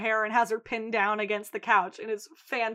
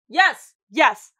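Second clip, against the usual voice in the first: loud triumphant cheer; 10 dB louder than usual. Real, not acted. Cheering for Mandy.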